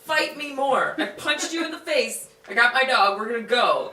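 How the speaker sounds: lightly voiced man warning the kangaroo off; tough guy voice. Guy telling off the kangaroo, mock tough voice. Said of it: "It's like".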